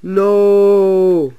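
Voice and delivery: long, loud wail of "no"; high drawn-out cry; cried out. A narrator's reading. Duncan has just been derailed, crying out.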